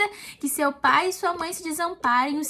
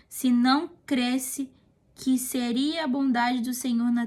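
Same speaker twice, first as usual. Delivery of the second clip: psalm reading. Acted. Reads a psalm aloud.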